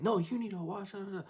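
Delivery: high, loud mocking voice; mock whiny driver. Imitating the other driver insisting he watch out, squeaky and loud. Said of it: "He then proceeds to be like".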